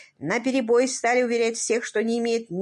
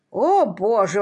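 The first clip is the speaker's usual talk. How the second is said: louder shocked outcry; exclamation of horror; 6 dB louder, slower than usual. Acted. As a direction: recoil with a loud "О, Боже!". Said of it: "воскликнул он".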